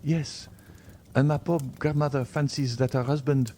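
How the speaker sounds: lightly voiced Valentine, eager; lightly voiced young woman. A narrator's reading. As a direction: greet the doctor with gentle eagerness. Valentine pleading with doctor.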